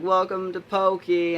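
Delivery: high, loud, drawn-out mock taunt; jeering crowd. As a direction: imitate a gang calling out in mockery. Retold crowd taunting him together.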